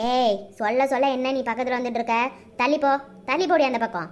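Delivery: cold and scornful, ordering her out; scolding mother-in-law. Acted.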